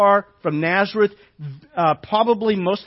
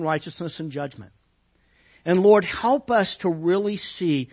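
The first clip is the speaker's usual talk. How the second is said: prayer; 3 semitones lower than usual. Acted. Pastor praying over the congregation before the sermon, hushed.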